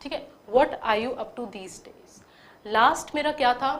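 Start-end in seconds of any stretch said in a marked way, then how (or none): 0.5-2.2 very slow "What are you up to these days?"; slow read. Shown as a demonstration. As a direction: read it slowly word by word. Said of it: "एक बार पढ़ती हूँ". (धीरे-धीरे पढ़ें)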